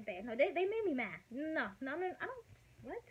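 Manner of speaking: worked-up venting. Retold or imitated. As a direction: spill it out fast like you're mad at everyone.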